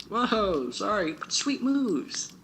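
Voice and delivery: put-on high, loud excited boy; excited kid. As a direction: burst in with a startled grin.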